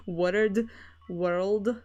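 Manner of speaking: "Word" and "World" with a tapped Scottish R, split into two syllables; "Word", "World" tried with Scottish R plus D; Scottish R before D. Shown as a demonstration. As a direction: struggle through "Word" and "World" in a Scottish accent. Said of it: "an R and then a D".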